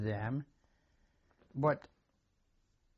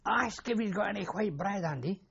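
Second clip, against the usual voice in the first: mild mock shout, pitched up; imitating a shouted question, voice raised in pitch only; retold shout; 5 semitones higher than usual. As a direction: call it out higher without really shouting. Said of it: "and he shouted".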